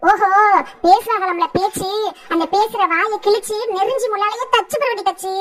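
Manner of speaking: usual speaking voice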